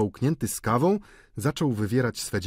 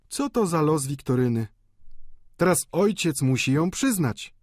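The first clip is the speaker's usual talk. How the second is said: high, louder chattering landlady; gadatliwa pani Vauquer; 7 semitones higher, 3 dB louder than usual. A narrator's reading. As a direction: prattle on in a raised woman's voice. Pani Vauquer gada po śmierci. (wysoki głos rozgadanej gospodyni)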